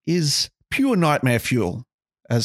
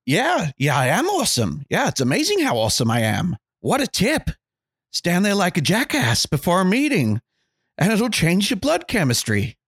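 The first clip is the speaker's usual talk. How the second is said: mock American accent, pitched up; hammy sarcastic American accent; 6 semitones higher than usual. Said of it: "Apologies for my American accent".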